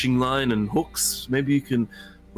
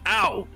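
illusion ow; 9 semitones higher than usual. Acted. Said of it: "emanate a sound going".

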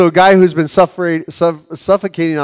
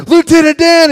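high, loud yell across the water; Forrest Gump yell; 12 semitones higher, 7 dB louder than usual. Retold or imitated. Forrest calling his friend from the boat, a loud high yell. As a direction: call out to Lieutenant Dan from the boat. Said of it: "He's like".

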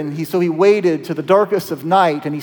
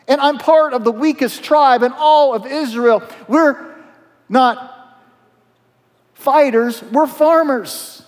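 higher, rising self-deprecating plea; earnest higher protest of weakness; pleading protest; 5 semitones higher than usual. Acted. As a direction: insist you're just a weak farmer. Gideon pleads his weakness.

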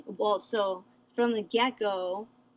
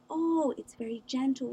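mock gentle tone; 4 semitones higher than usual. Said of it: "the way they speak to me is like".

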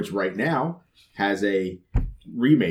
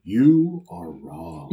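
mock dramatic; 5 semitones higher, much slower than usual. Game host announcing wrong answer.

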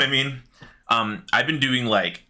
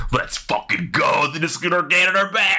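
excited shout; 5 semitones higher than usual. Real, not acted. Hype at returning lore item.

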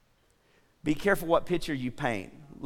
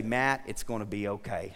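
lower, softer, comforting word; gentle reassurance; 5 semitones lower, 5 dB quieter than usual. Acted. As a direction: reassure softly, voice dropped low. Voicing God's reassurance to him.

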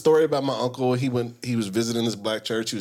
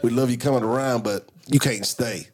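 imitated Black American accent, slowing at the end; deacon's Black American accent, lightly put on. Deacon turns visiting preacher away, Black American accent. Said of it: "You gotta do it in the accent".

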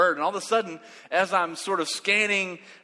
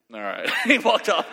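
normal talking voice

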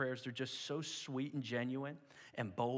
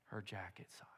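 awed whisper; 5 semitones lower, 8 dB quieter than usual. Acted. Awe at answered prayer.

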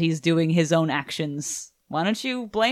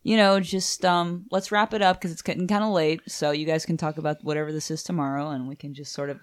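calm parent tone. Pretend. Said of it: "a calm tone of voice".

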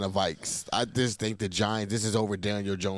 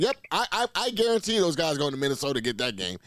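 mocking imitation; 5 semitones higher, faster than usual. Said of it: "jumped out and said".

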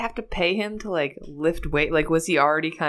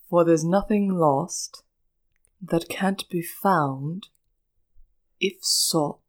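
very slow, measured British impression; deliberate cadence with long pauses; Alan Rickman; much slower than usual. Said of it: "That's my Alan Rickman".

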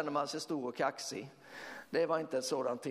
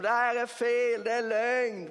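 higher, louder mocking shout; retold heckler's yell; 7 semitones higher, 5 dB louder than usual. Angry man heckling preachers, imitated loud yell. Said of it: "hånat oss och skrikit mot oss".

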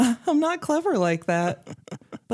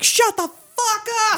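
high, strained outburst; hecklers' yell; 13 semitones higher than usual. Pretend. Back-row rider heckling an inspirational instructor, mock yell. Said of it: "I'd be like".

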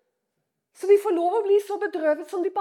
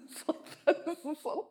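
soft, hushed laughing comfort; soft soothing; 2 semitones lower, 9 dB quieter than usual. Real, not acted. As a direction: settle them gently with a breathy laugh. (lavt og beroligende)

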